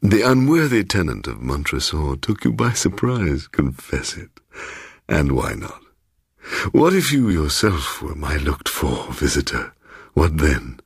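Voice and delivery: lightly voiced, insinuating old host; a hint of a smooth, teasing host welcoming a guest; sly host Bloom. Host Bloom teasing his surprised guest, lightly voiced insinuating tone.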